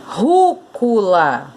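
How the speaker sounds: "rúcula" slowly drawn out in syllables. Shown as a demonstration. Teacher separating "rúcula" for pupils, slow and syllabified. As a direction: split "rúcula" slowly, beat by beat. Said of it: "você vai separar a sílaba aqui".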